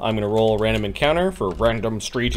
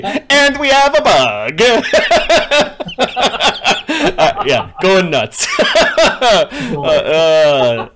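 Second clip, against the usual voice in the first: laughing; 10 semitones higher, 7 dB louder, much slower than usual. Real, not acted. Bug in the code, laughing.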